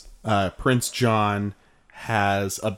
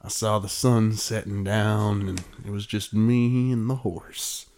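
lightly voiced wistful old cowboy; drawling cowboy musing at sunset. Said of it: "wistful cowboy thing".

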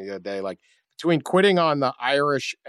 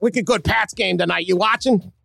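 mock Boston accent; 2 semitones higher than usual. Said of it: "Coach O".

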